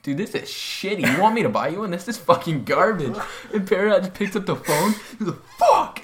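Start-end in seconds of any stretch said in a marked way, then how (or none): 0.0-3.2 animated, higher-pitched needling of a buddy; retold scornful ribbing; mocking taunt. Retold taunt about a lifting belt. 5.6-6.0 high, loud burst of mock fury; retold caveman yell. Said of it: "just throws his phone right into the charging port like a caveman".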